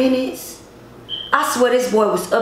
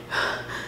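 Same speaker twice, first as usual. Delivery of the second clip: soft breath out, acting winded; winded gasp, imitated; 11 dB quieter than usual. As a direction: act out catching your breath. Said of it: "trying to catch my breath".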